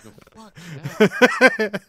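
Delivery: put-on loud, slow, drawn-out Australian accent; bad Aussie impression, stretched out. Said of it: "Can't do an Australian accent".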